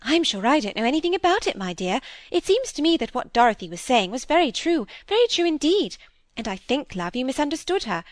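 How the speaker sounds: smooth things over nervously; meek sister trying to calm the quarrel; fluttery timid spinster. A narrator's reading. Miss Phoebe making peace.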